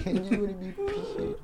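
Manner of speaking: high put-on woman's voice; TikTok lady impression. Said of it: "some Asian lady saying that".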